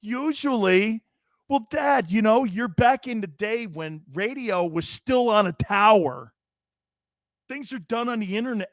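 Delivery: lightly voiced daughter explaining to her dad; imitating daughter. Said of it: "she's like".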